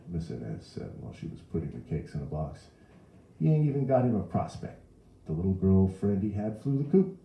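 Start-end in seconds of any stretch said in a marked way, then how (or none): 3.4-7.2 higher, louder New Orleans mother; exasperated gossiping mother; complaining Mrs. Riley. A narrator's reading. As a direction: lament the son's poor prospects. Mrs. Riley laments her son's prospects.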